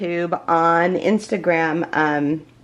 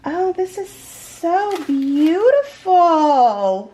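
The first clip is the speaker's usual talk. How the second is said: very high, loud, slow and drawn out; real excitement; 9 semitones higher, 5 dB louder, much slower than usual. Real, not acted. Opening the bag on camera, overwhelmed with joy. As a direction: let the delight carry it up. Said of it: "I'm even shaking".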